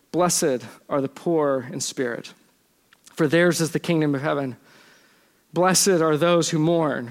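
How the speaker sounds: measured, solemn reading of the Beatitudes; scripture reading. Acted. Preacher reading Jesus' blessings to the congregation, solemnly. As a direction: read it evenly, with pauses between the verses.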